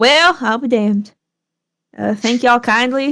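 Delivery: put-on high Southern-accented drawl. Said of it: "did I have a southern accent for him?".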